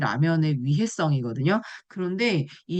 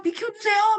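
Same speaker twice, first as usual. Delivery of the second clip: much higher, cartoonish little enzyme voice; polite amylase. Amylase asking crowded starch to move aside, high cartoon voice. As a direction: squeeze a small character asking to pass. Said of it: "막 이러면서 막".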